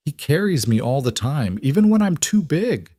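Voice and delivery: put-on eager, high little girl. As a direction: play the excited young daughter. Lily voiced as child.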